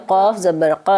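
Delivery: teacher shows the heavy ق sound to a student; heavy qaf. Shown as a demonstration. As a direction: make the ق thick and heavy, not like ک. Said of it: "موٹی آواز ہے".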